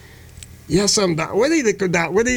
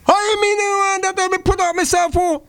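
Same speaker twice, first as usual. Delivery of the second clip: indignant mother; 10 semitones higher than usual. Acted. Mother scolding in acted scene.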